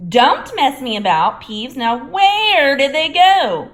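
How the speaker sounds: high, loud demanding; urgent caretaker. A narrator's reading. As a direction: hiss at the poltergeist, hunting. Filch voice.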